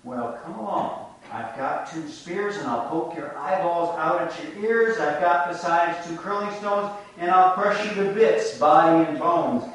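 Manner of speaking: building from easy to loud and fierce; mock menace that swells to a roar; defiant threat. Big goat warning the troll, building to fierce loud threat.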